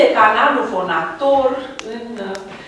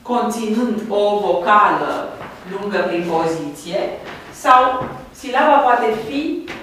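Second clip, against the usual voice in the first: slow dictation; slower than usual. Shown as a demonstration. Teacher dictating the rule slowly.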